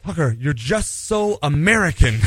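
a hint of weary exasperation, drawn out; frustrated. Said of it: "she finally got really frustrated with me".

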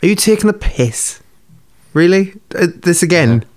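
high, exasperated disbelief; incredulous. Real, not acted. Co-host learning they watched different episodes, incredulous. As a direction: pitch it up, can't believe it.

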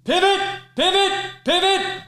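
high-pitched, loud yell in short bursts; Ross screaming. Acted. Ross to Rachel and Chandler hauling a sofa upstairs, screaming. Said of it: "Ross keeps screaming".

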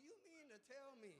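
mock indignant outburst; angry tearful quote. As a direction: retell your furious disbelief. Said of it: "I'm crying, I'm mad".

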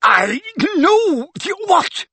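choking, high, slow splutter. A narrator's reading. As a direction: splutter while being strangled. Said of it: "spluttered Mundungus".

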